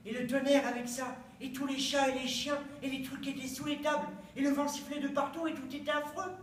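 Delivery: mounting excitement over a frightful night; building agitation. Acted. Monologue builds up the stormy night.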